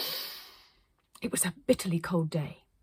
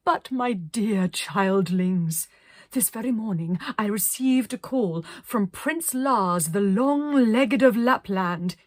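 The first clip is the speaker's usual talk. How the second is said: slow and louder, stately; grand pronouncement; 5 dB louder, slower than usual. Acted. Arcadia tells the children, slow and stately. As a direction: savour each word.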